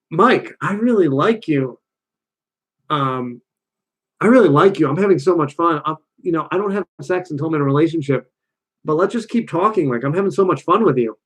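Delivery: gentle, sweet letdown; soft delivery. Retold or imitated. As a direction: keep it soft while saying no. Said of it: "how you deliver it is instead is like".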